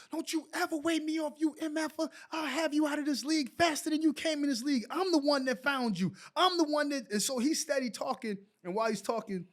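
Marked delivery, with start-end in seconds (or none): 0.1-7.1 a hint of a furious coach, higher; lightly acted chewing out of a player; retold angry coach. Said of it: "he cussed me out".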